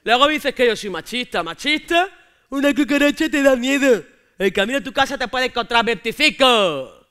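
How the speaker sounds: put-on loud, scoffing boyfriend; mocking macho boyfriend. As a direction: sneer at her fear. (novio machista burlándose en voz alta)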